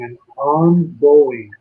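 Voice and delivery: "ongoing" stretched out slowly and leaned on; slow, deliberate stress on "ongoing"; drawn-out emphasis. Shown as a demonstration. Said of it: "I want to emphasize".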